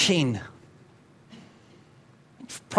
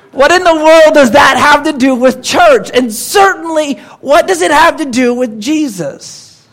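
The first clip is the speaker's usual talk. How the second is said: high, loud exclamation of disbelief; loud mock wonder; 5 semitones higher, 5 dB louder than usual. Real, not acted. Pastor asks the congregation what the poem has to do with church, loud. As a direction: throw up your hands at the question.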